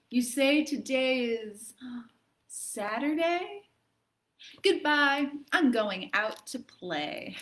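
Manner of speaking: gasp, then a bright goodbye; suddenly well and off to play; excited. Acted. Girl finding it's Saturday, excited gasp.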